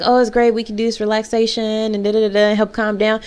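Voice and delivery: lightly put-on polite cheer; mock nice. Pretending to be pleased with the group, lightly fake nice. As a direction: play it falsely pleasant. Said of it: "I was being so nice".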